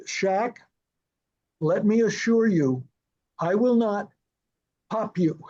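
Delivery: spaced out with deliberate pauses; measured reassurance. Retold or imitated. Director to actor wary of eye contact, measured reassurance. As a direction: retell a careful promise, pausing between phrases.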